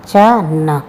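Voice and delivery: वचन split into बा, चा न; syllable by syllable. Shown as a demonstration. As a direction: spell out चा न slowly, one part at a time. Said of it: "इस प्रकार वचन लिखना है".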